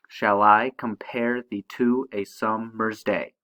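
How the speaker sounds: slow reading stressing "I", "pare", "to", "sum", "day" in "Shall I compare thee to a summer's day"; iambic stress. Shown as a demonstration. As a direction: beat out "Shall I compare thee to a summer's day" slowly, every second syllable accented. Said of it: "unaccented followed by accented".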